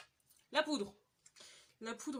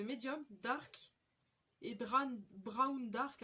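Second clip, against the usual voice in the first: French-accented English shade names; hesitant English with a French accent; bad English accent; 4 dB louder, much slower than usual. Real, not acted. Recalling shade names for viewers, clumsy French-accented English. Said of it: "L'accent anglais, c'est de la merde".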